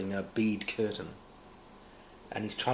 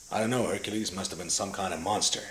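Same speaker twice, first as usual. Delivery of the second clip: a hint of old Western hero in the voice; John Wayne. Audition line for Hercules, done as a light John Wayne. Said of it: "John Wayne".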